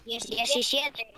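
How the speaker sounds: slow pretend adult voice; put-on deep voice. Boy restating his age to doubter, put-on deep voice. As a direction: draw it out to sound older. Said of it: "hacés la voz gruesa".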